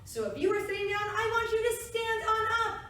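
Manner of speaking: bright high call to stand up; kindergarten teacher voice. Real, not acted. Teacher rallying kids to stand.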